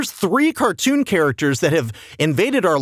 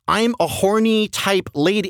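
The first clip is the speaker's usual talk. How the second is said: sultry mink voice; 4 semitones higher than usual. Retold or imitated. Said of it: "the whole bit is".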